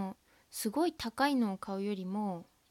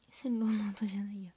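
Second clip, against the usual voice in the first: whispered correction. Real, not acted. Whispered self-correction aside.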